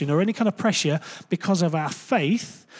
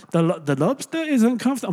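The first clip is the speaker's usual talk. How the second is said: hint of a Jewish accent, higher pitch; Jewish rabbi accent; 6 semitones higher than usual. Preacher begins quoting a rabbi on lobsters, hint of Jewish accent. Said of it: "I'm not gonna do a Jewish accent".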